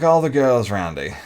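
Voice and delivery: loud showy brag; hammed-up flirty brag.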